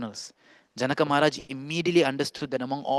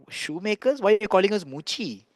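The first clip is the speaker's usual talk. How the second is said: higher, mildly indignant question; shocked; 5 semitones higher than usual. Acted. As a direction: act out the assembly's shocked protest. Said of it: "And everyone was shocked".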